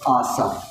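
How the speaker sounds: آصف said aasaf, A for I; Punjabi-style vowel. Retold or imitated. Teacher mimicking Punjabi speakers, آصف said as aasaf. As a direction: say آصف with an A in the second syllable. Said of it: "کسرہ ہو وہاں پہ زبر پڑھتے ہیں".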